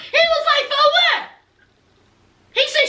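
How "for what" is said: high-pitched mock indignation; indignant retort. Man told to apologize to his girlfriend, indignant retort. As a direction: throw it back in disbelief, imitating him. Acting Jovi refusing to apologize.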